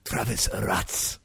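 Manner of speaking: low, slow announcer voice; announcer name drop. Acted. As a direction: boom out the name. Intro name announced dramatically.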